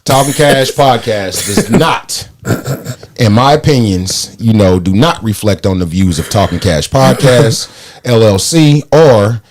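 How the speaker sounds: slow, formal disclaimer read; slow mock legal disclaimer. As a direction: read it like fine print, deadpan. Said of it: "mock legal disclaimer read".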